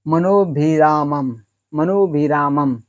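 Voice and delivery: मनोभिरामम slowly, syllable by syllable; मनोभिरामम drawn out, ending on म; slow demo reading. Shown as a demonstration. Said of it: "इस तरह से होता है".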